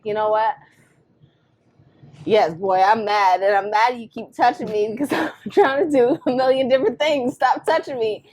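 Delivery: mild exasperated scolding; admitting annoyance. Retold or imitated. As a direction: own up to being mad, loud. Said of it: "I was like".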